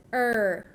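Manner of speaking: "er" held long, like a pirate's growled sound. Shown as a demonstration. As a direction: draw out "er" slowly as one sound. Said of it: "like a pirate".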